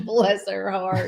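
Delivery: slow, laughing mock Texas drawl; Texas hick accent. Echoing co-host while laughing, slow Texas accent. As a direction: drag out the blessing in a joking Texas accent. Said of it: "like a Texas hick".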